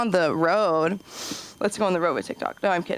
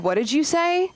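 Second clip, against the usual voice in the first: mock stern teacher; 8 semitones higher than usual. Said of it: "No, I said".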